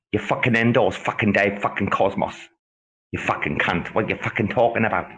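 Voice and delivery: a hint of an outraged Rama telling off Robbo; impression of Rama. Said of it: "this is my impression of Rama".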